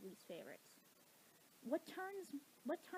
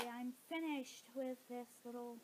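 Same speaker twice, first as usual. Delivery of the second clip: half asleep. Real, not acted. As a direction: talk like you're half asleep. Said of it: "why I sound half asleep".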